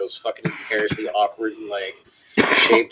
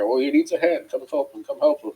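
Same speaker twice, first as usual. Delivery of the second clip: higher-pitched imitation of a meddling boss; mock urgent call for help; officious summons; 5 semitones higher than usual. Supervisor telling the trainer to help the new cook, officious mimicry.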